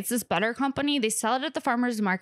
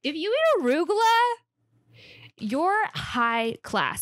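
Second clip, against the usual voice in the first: pitched way up, then slow and haughty; mock snooty; 5 semitones higher, slower than usual. Bragging to viewers about arugula, mock snobbish. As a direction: play a snob bragging about lettuce. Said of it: "high class shit".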